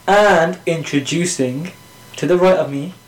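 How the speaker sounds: slow, drawn-out mock announcer intro; mock-grand introduction, very slow; sarcastic introduction. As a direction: stretch out the name like a sarcastic host. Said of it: "sarcastic shit".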